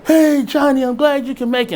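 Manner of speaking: imitating Mick's British greeting, high and loud; a light British accent, loud and delighted. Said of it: "skinny guy with an accent walk up".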